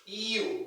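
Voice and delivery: U begun with a little ee sound; drawn-out ee-oo for U; glide pronunciation. Shown as a demonstration. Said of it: "there's a little E sound there".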